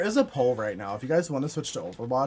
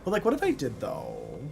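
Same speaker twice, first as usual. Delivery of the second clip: playful insistence. Real, not acted. Streamer tempting herself with more caffeine, playfully insistent.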